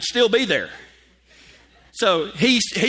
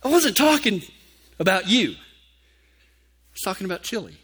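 doctor. Retold or imitated. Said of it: "But he said".

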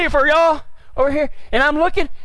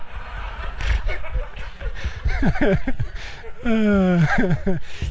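laugh; 3 semitones lower, 4 dB quieter than usual. Real, not acted. Laughs at own joke.

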